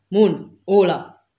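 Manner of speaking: sharp loud call to the officers; calling out names. Acted. The interrogator summons his officers with a loud call. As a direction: bark the two names across the room.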